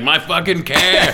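slow, lightly done Boston care for car; mild Boston accent, slow. Retold or imitated. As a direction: drag out care like a Boston local. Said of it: "he's motioning like".

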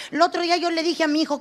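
ordinary talk

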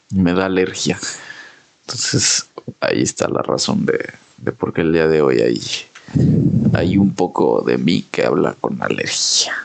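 stuffy allergy voice; nasal voice. Real, not acted. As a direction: talk through a blocked nose. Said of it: "Ahora traes tu voz gangosa". (voz gangosa por la alergia)

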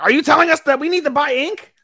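high, bratty girl voice, mocking the dimwit. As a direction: squeak it out like a snooty idol. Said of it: "Yumechi was like".

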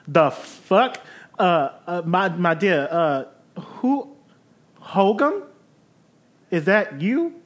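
fussy genteel lady. Acted. Eve's voice held by player.

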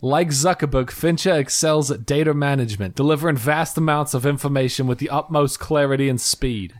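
a little bit of Brooklyn New York; slight put-on New York accent. Shown as a demonstration. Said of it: "a New York thing".

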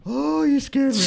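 high, shaken woman's voice, slowing down; startled older lady. Retold or imitated. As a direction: imitate a frightened older woman catching her breath.

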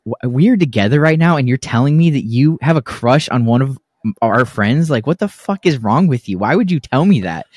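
retold, mildly indignant disbelief; incredulous confrontation. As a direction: question her in disbelief, as if replaying it. Retelling an incredulous confrontation with girlfriend.

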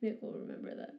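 breathy whisper of the game line; soft whispered game pop-up; whispered echo. Retold or imitated. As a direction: hush it like a secret notification. Echoing in a whisper.

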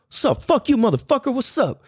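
mock trash talk, thrown out as practice; practiced trash talk. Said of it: "we just practice. He's like".

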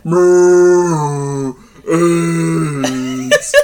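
mock foghorn moo. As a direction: bellow it like a foghorn. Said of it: "Like a fucking foghorn".

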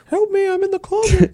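high muffled cry behind a door. Retold or imitated. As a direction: call out as if trapped in a closet. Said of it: "Just as it sounds like a muffled".

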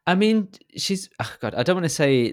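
hushed guilty whisper. Real, not acted. Whispering to co-host before a touchy remark, hushed. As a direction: drop to a whisper before saying something awkward. Hesitant aside about old people.

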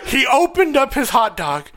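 a mother griping to the restaurant manager about mustard, mock indignant; mock angry mom. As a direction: ham up an irate mother demanding the manager.

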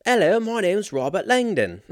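high, hammed-up put-on film-hero voice; Robert Langdon. Host introducing himself as the movie hero, hammy mock voice. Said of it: "No, that was Tom Hanks".

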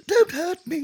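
high, loud panicky plea; mock fright. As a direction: beg like a coward about to be hit. Cowardly lion cowering.

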